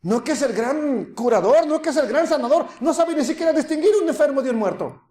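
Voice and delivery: high, laughing taunt of the crowd; imitating the crowd jeering at the healer; mocking laughter. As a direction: ridicule him with a laugh in the voice. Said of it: "Se burlaron de él".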